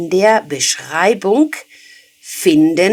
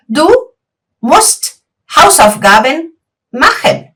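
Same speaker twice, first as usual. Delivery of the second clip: slow, word by word, pause after Du; slow dictation; 5 semitones higher, slower than usual. Shown as a demonstration. Teacher repeats the sentence slowly so students follow. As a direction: spell it out slowly for learners. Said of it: "Y yo te digo".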